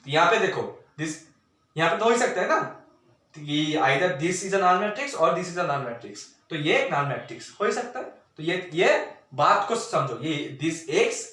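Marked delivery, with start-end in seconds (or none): 3.3-6.2 very slow, word by word; slow dictation. Shown as a demonstration. Teacher dictating the statement, very slow. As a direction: spell it out slowly for students. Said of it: "spells out the statement".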